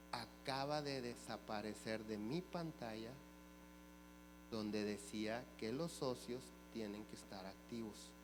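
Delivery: low, subdued quote, as if taken aback; dismayed clerk. Retold or imitated. Clerk tells the customer what vanished from the screen, dismayed. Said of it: "se queda consternada".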